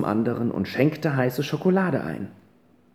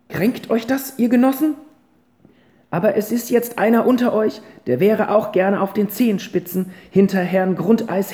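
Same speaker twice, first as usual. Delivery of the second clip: put-on high, loud, firm old lady addressing the boys; stern grandma scolding her cadets, raised voice; grandmother's speech; 6 semitones higher, 3 dB louder than usual. Grandmother stands to lecture the boys, high and loud. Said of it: "fuhr die Großmutter fort".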